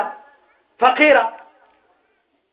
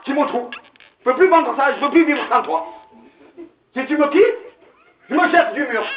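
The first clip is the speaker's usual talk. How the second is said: lovesick husband. Retold or imitated. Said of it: "il a dit à sa femme".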